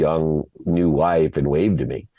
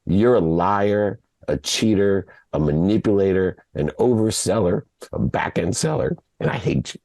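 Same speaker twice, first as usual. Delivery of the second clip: retold hurt, fading on the last words; emotional accusation; 3 semitones higher than usual. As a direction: accuse him item by item, losing your voice. Son's retold accusation of father.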